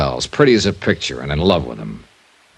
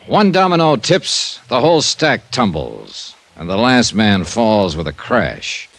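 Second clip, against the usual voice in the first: slow, high-pitched radio promo; slow dramatic build to the sign-off; dramatic teaser; 4 semitones higher, slower than usual. Acted. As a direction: tease the next episode with suspense. Star's teaser for next episode.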